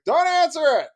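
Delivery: high, loud, urgent mimicked cry; imitated frantic kid; urgent plea. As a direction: blurt it out like a kid desperate to stop someone. Daughter's urgent plea, retold.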